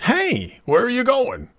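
high-pitched startled call; calling after someone. A narrator's reading. Realtor to a stranger bolting out, calling after him.

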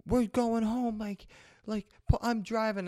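high squeaky imitation of the instructor; teacher taking over. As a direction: parody her taking the wheel. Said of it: "And she's saying, like".

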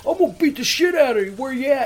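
imitating an enraged caller. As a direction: play the furious guy on the phone, spitting threats. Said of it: "getting fucking madder than hell".

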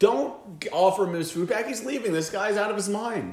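high, loud frantic hissed yell; exasperated shout. Retold or imitated. Telling buddy not to give drunk his food, frantic high shout. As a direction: yell at your friend to stop him. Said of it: "I'm like".

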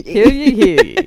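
loud mock town crier call. Echoes the proclamation.

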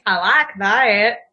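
very slow drawn-out repeat; savoring. Pretend. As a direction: relish every word.

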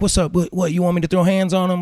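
mock tough guy. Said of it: "another guy was like".

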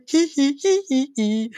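high mischievous hee hee giggle. Real, not acted. After the spy twist, a mischievous giggle. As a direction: giggle like you know a secret.

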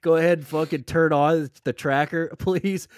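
high, loud frantic pleading; frantic yelling. Pretend. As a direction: beg urgently, voice up high. Acting as frantic responders.

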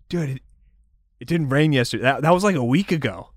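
a hint of a surfer dude; lightly voiced stoner bro. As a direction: ask your buddy casually. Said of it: "Sunbeam will say".

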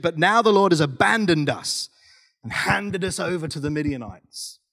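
a touch of frustration, with weighted pauses; understated disappointed challenge; frustrated reply. Acted. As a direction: lean on the questions like a let-down man. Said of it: "Hear the tone in his reply".

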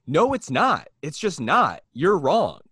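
arguing back at the negative moviegoers; mock retort. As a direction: shut him down, exasperated. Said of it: "And it's like".

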